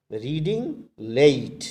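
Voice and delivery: Reading late, with late punched loud; stress on late. Shown as a demonstration. Teacher to students showing how to pronounce late, stressed. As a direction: lean hard on the word late. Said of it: "I am pronouncing late".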